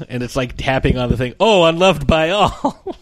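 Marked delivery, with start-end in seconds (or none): 1.4-3.0 higher, slow cartoon realization; Homer. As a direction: imitate a cartoon character slowly catching on, rising at the end. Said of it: "a Simpsons version of this where Homer".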